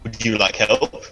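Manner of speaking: slow, sly sinister offer. Acted. Magnus offering Rezon help with the corpse, slow and sly. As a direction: draw out a creepy question. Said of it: "I sort of go".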